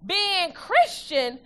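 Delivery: slow, stressed reading of the verse; emphatic scripture reading. Acted. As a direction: lean into each phrase for the church.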